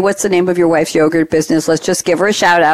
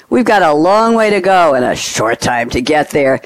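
put-on little Southern accent; 2 semitones lower than usual. Host to Dave, reading his movie quote, in a light Southern accent. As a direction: quote the trucker line with a hint of a Southern accent. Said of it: "I'm hoping I'm doing a little accent here".

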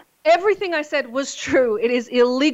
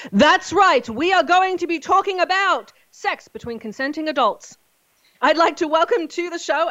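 spring the big reveal; excited reveal; 6 semitones higher than usual. Acted. Reveal after ringmaster build-up.

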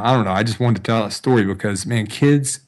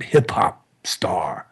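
slow, whispered mumble; imitating a shy teen's whispered reply; mumbled answer; 3 semitones lower, much slower than usual. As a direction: barely give it up, under the breath. Kid's mumbled reluctant answer.

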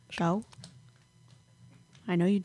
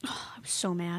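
sighed whisper; 3 semitones lower, 11 dB quieter than usual. Real, not acted. Sighing about the soccer ball.

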